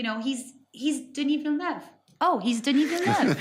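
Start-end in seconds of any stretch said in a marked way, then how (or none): 2.2-3.4 mock grand announcement. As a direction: say the name as if it should impress. Mock restatement, listener laughs.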